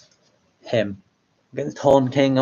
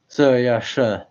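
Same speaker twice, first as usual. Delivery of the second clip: muffled through the mask; 3 semitones higher, 5 dB louder, slower than usual. Acted. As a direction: repeat it muffled behind a mask. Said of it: "You want me to try saying".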